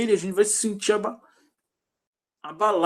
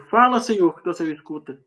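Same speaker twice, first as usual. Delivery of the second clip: loud, raised opening, dropping off after; retold shout; 4 dB louder than usual. Believer who called on God's name, retold shout. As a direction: cry the first words out, then ease down. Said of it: "Você gritou".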